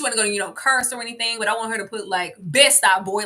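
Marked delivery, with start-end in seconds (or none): 2.4-3.2 Brooklyn attitude. Retold or imitated. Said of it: "like, Brooklyn".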